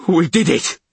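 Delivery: high, loud cheer; triumphant call. A narrator's reading. Cobbin celebrating escape with crew, high triumphant call. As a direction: call it out in jubilation. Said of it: "called Cobbin".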